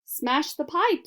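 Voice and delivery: slow, high yelled order. A narrator's reading. Mother yelling to smash the pipe, loud. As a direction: yell it, waving an umbrella. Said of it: "yelled Missus Gloop".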